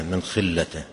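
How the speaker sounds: خلته with an i after the kha, "khillatih"; kasra on the kha. Shown as a demonstration. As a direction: say خلته as "khillatih", short i in the first syllable. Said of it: "بكسر الخاء".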